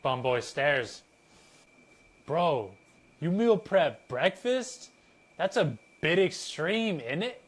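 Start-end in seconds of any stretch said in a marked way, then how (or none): 2.3-7.4 teasing, put-on accent, pitched higher; mock Bumboy's disbelief in the same vague accent. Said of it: "I guess these guys have, have an accent".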